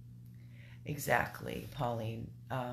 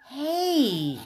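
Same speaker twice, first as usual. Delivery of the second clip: higher, louder warning; loud warning call; sharp call; 9 semitones higher, 9 dB louder than usual. Real, not acted. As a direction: stop the dog with a shout. Calling dog sharply.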